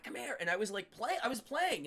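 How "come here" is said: high, held-back mock yell; imitated yell. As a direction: mimic someone calling you over without full volume. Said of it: "was yelling at me".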